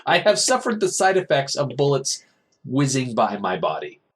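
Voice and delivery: high, over-enunciated mock complaint; hammed-up affronted victim; indignant mock reply. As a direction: spell out the grievance in mock outrage. Acting wounded Angharad's indignant reply.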